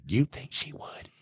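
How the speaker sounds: soft, slow, hushed imitation, like sharing a secret; mock whisper. The puzzled officer asks his partner, mock whisper. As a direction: hush it down as you ask slowly. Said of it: "you know, whispering".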